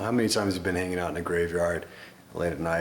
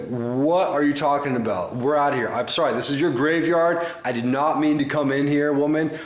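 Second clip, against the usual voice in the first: higher, louder hammed-up begging; mock panicked plea; 7 semitones higher, 5 dB louder than usual. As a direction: plead to be let go, half-joking panic. Fleeing the graveyard woman, pleading.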